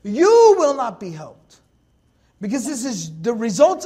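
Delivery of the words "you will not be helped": slow and louder, each word weighted; slow weighty declaration; slow emphatic. Shown as a demonstration. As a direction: lay down each word slowly. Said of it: "Allah is saying".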